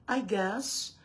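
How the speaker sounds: slow taunting whisper; mock whisper. Teasing the rival that she fears a lawsuit, slow whisper. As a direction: whisper it slowly like a secret to mock her.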